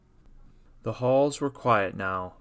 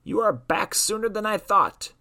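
higher, put-on voice for Tony; sock character voice; 7 semitones higher, 4 dB louder than usual. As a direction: play the teasing old sock.

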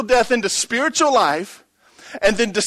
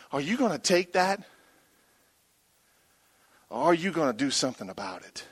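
God's challenge; 5 semitones lower, 10 dB quieter than usual. Acted. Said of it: "I feel God saying to us".

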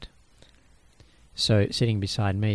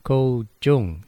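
voice command; 5 semitones higher, 6 dB louder, slower than usual. Retold or imitated. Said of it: "when I say".

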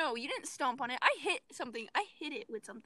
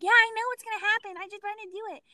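mock defiant; 7 semitones higher, 7 dB louder than usual. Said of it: "You're like".

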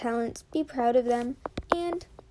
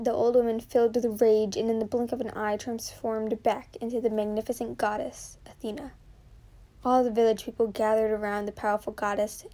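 storytelling voice. Acted. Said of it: "Gotta get my storytelling voice on".

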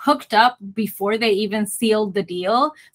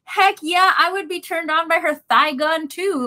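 excited quote; 6 semitones higher than usual. Retold or imitated. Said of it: "And I'm like".

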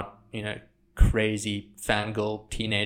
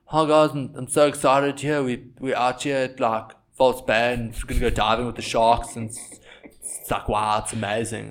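mock vlogger; 4 dB louder than usual. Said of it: "don't vlog and be like".

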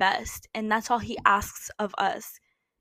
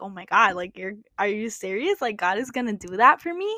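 mock-gushing, the last part rushed and fast; excited disbelief. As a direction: gush like you can't believe it. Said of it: "I would have been like".

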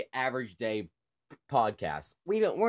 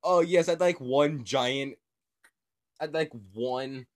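put-on basic white girl. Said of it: "says every basic white girl ever".

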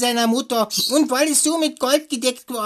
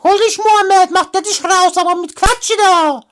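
street slang; 6 semitones higher, 8 dB louder than usual. Acted. Lazy girl as street-slang teen.

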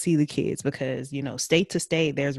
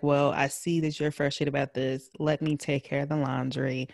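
softer, soothing offer; supportive wife; 3 semitones lower, 4 dB quieter than usual. Acted. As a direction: gently take a load off him, acted. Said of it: "So it's like".

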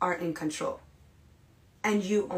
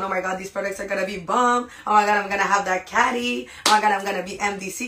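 giddy, louder gushing over the new business; mock hyped new seller, a bit louder; excited newbie; 4 dB louder than usual. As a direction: gush like a hyped beginner.

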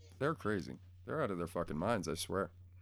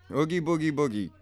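higher, louder playful daughter imitation; imitating his daughter's babble, louder; 6 semitones higher, 7 dB louder than usual. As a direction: mimic her baby babble. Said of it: "That's what she just said".

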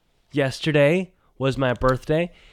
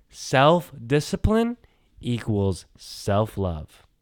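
quoting Will Smith; much slower than usual. Retold or imitated. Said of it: "as Will Smith said".

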